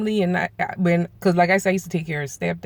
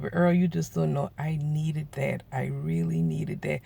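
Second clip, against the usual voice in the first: soft grateful; 5 dB quieter than usual. Retold or imitated. Dying friend thanking Earl for the laughs, soft and sincere. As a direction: say it gently, moved.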